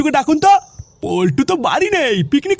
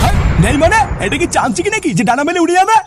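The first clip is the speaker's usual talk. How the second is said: higher, heated questioning; indignant disbelief; 3 semitones higher than usual. Acted. Husband told the hidden money is gone, indignant disbelief. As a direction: fire back in angry disbelief.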